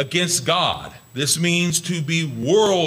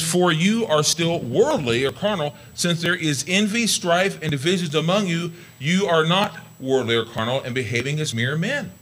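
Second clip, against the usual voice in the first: scripture reading. Acted. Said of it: "It says".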